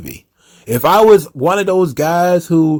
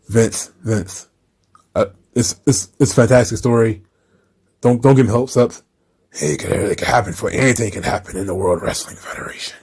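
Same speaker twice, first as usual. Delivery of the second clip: hushed mock exchange; 6 semitones lower, 4 dB quieter than usual. Mock dialogue, wrestler then Vince.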